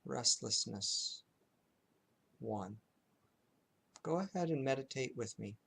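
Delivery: unhurried noting with long silences between phrases; lightly hushed, measured meditation guiding; guided meditation. Shown as a demonstration. Teacher leading students in zero-to-five noting, calm guided meditation.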